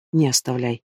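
the plea collapses into a hushed, broken murmur. A narrator's reading. Husband quietly pleading over his dying wife.

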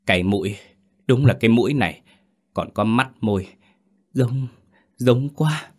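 put-on choked-up old mother, voice lifting as it goes; nghẹn ngào nấc. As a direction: catch the words in your throat, moved. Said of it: "cổ họng bà lại nấc lên".

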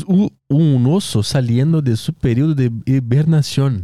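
slow, mock Spanish reading; Spanish accent. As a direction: read it like a Spanish headline. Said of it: "Por que que urso em espanhol é oso?". (sotaque espanhol)

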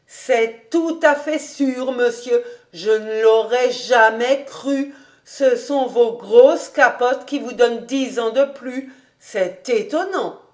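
lightly voiced housekeeper, emphatic; admiring old housekeeper. Housekeeper assuring master he looks younger, mildly emphatic admiration. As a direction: assure him with a touch of wonder.

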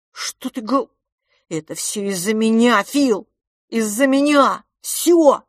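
climbing high and loud; boy crying out it's all his fault; anguished cry. Acted. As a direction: wail the blame on himself. Boy blames himself.

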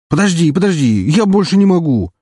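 panting after a long chase; out of breath. Acted. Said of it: "тяжело дыша".

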